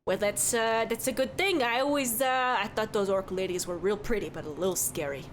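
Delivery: lightly voiced chatty Midwestern barkeep; cheerful innkeeper who says don't you know; folksy bartender. Bartender describing hot dish.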